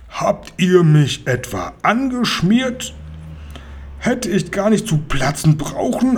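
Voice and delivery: high-pitched, incredulous outburst; outraged. A narrator's reading. Duped robber to his three tricksters, outraged.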